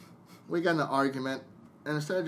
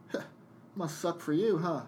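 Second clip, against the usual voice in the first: lightly voiced smug jab, a touch higher; smug taunt; 5 semitones higher than usual. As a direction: mimic her sneering little dig. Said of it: "she just chuckles and looks at me and goes".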